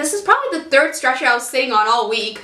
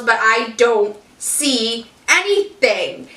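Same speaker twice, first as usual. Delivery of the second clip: dismissive doctor; 2 semitones lower, much slower than usual. Retold or imitated. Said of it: "is literally what she was doing to me".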